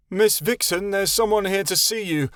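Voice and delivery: put-on high, timid boyish whimper. A narrator's reading. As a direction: announce it fearfully. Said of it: "he whimpered".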